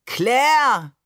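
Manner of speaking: loud, high, drawn-out melodramatic cry; theatrical call. A narrator's reading. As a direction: call after her like a stage lover. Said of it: "rief Barbe theatralisch".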